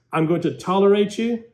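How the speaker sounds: grudging, cold. Shown as a demonstration. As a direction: say it like you barely put up with them. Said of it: "big difference".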